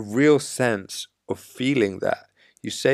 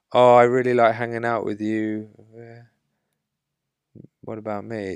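needy compliment; 3 dB louder than usual. Retold or imitated. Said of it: "when you give a compliment to get something back".

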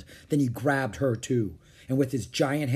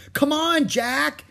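high, urgent yell; shouting; 14 semitones higher, 5 dB louder, slower than usual. A narrator's reading. Annie to Jack from the treehouse, urgent shout. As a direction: shout for him to follow. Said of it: "Annie shouted".

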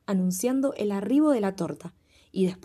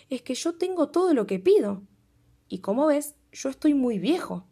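lightly voiced old man; 5 semitones higher than usual.

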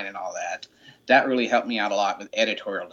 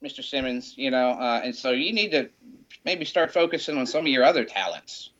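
higher mock-scolding mom voice; a higher, teasing motherly lecture; imitating his mom; 5 semitones higher than usual. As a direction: chide him like a little Southern mother, pitched up. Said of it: "and she's like".

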